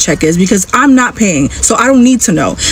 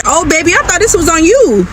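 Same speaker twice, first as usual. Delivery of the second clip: raised, sing-song baby-talk mimic of the date; mock sweet date voice; 7 semitones higher than usual. Mocking the date who expected her to pay, sing-song high. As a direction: mimic him cooing sweetly, higher. Mocking date's entitled line.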